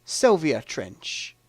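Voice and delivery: slow, measured film-character introduction; Sylvia Trench. Acted. Quiz player re-enacting the card-table introduction, slow and deliberate. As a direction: draw out the surname with a pause before the full name. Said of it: "And she goes".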